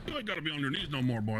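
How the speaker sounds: laughing. Acted. Laughs while helping him up.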